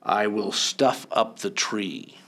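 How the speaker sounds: low, slow, sly Grinch voice; a villain savouring his plan, low and slow; grinning Grinch. A narrator's reading. Narrator voices the Grinch plotting, low and sly. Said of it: "grinned the Grinch".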